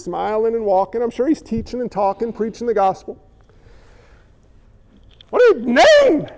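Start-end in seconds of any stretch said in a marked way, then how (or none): 5.3-6.3 pitched-up comic voice; high mock disciple. One disciple mocking another's question, high comic voice. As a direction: squeak the line like a flustered follower.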